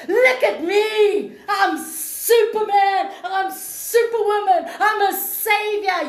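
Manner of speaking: hammed-up boastful cry, laughing; mock the ego proudly, slowed and laughing. To viewers, mocking her own ego with a laughing boast. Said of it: "feed my ego and say".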